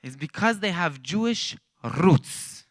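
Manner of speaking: slow, drawn-out mimic of the pastor; imitating Pastor Dennis. Teller repeating the pastor's line for laughs, slow mimicry. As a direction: stretch it out like the pastor does. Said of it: "He actually talks like that".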